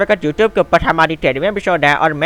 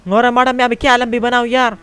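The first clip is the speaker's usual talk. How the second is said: Pathan voice; 8 semitones higher than usual. Acted. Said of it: "Manoj के बच्चे बातें कर रहा".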